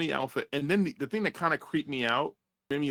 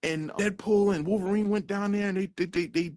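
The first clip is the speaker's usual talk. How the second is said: much higher nervous sucking-up voice; fawning Paradox; 8 semitones higher than usual. Retold or imitated. Paradox explains himself to the boss, high fawning babble. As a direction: gush to the boss in a high panicky voice. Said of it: "He's like".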